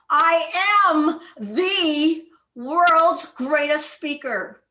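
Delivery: world's drawn out high and loud; stress on world's. Shown as a demonstration. Coach shows stress on world's to the club. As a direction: stretch world's big and slow. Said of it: "one word at a time as if it is the most important".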